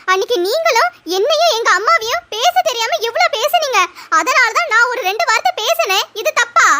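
a lightly voiced young wife excusing herself; daughter-in-law voice. Daughter-in-law talking back.

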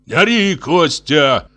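high, sharp rebuke. A narrator's reading. Father raises his voice at Костя. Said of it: "тоже повысил голос отец".

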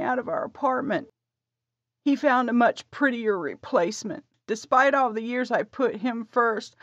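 wounded confession building up; hurt wife. A narrator's reading. Wife explains her dream.

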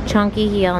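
normal talking voice

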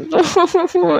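a short hammed-up pretend sob; mock fake sobbing. Payal fakes crying to make Trisha apologise, a hammed-up sob. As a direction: fake a playful little cry to guilt her friend. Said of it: "पायल फिर रोने की acting करने लगती है".

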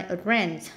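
"Address" stressed on the second syllable. Shown as a demonstration. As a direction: put the weight on the end of "Address". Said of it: "nhấn âm hai".

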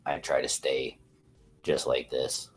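low, softened, restrained speaking voice; kept calm. Shown as a demonstration. Man showing how he avoids making women cry, kept calm. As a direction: hold it low and contained, no yelling. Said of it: "whenever I start yelling, women automatically go to crying".

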